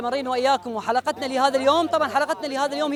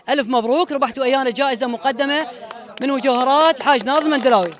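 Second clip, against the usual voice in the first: booming prize announcer; 4 dB louder than usual. Real, not acted. Host announces prize win.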